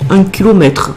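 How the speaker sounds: southern French accent, put on for fun; accent du Sud. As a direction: say it like someone from the Midi. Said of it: "J'adore faire l'accent, euh, l'accent du Sud". (accent du Midi, pour s'amuser)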